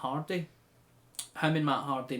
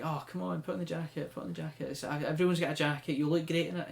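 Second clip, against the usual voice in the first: mock pleading, higher pitch; coaxing; 4 semitones higher than usual. MJF urging Sammy to wear the jacket, coaxing. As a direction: wheedle him into it.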